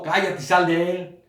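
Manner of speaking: loud, high, slow shouted command; Jesús. Acted. Preacher acting Jesus rebuking demons, loud drawn-out shout. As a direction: raise the voice and order it out forcefully. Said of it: "cuando Él le gritó".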